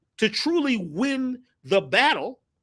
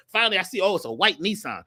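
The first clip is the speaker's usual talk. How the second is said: usual speaking voice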